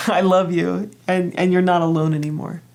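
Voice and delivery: a small laugh into a fond I love you. Acted. Self telling her judgy part she loves her, with a fond laugh. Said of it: "from myself, I said".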